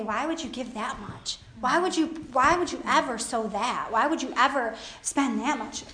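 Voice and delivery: lightly voiced devil coaxing a giver to hold back; tempting devil. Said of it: "the devil will come to you and say".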